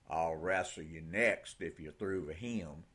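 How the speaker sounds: лёгкий техасский акцент; a hint of a West Texas drawl, unhurried. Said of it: "in a rich West Texas drawl".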